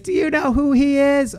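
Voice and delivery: high mock wife voice; wife scolding the teen, high mock voice. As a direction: pitch it way up, indignant. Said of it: "And she's like".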